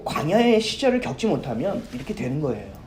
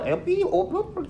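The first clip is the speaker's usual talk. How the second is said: mock bleeped cursing, much higher; manager cursing; 11 semitones higher, 5 dB quieter, slower than usual. Manager swearing at the young waiter behind the curtain, mock bleeped tirade. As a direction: spit garbled curses at the waiter. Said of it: "쌍욕을 저한테 막 쏟아내더라고요".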